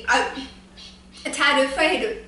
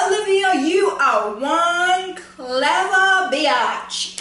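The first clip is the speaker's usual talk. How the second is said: sassy praise; 3 semitones higher, much slower than usual. Real, not acted. Praising Olivia, drawn out.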